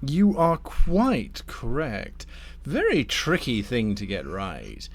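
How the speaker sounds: deliberate, insinuating tempter; lightly voiced scheming Damnifer. Damnifer pitches a grafting scheme to Thorn, lightly voiced courteous schemer. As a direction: unveil the offer with relish. Game master plays Damnifer.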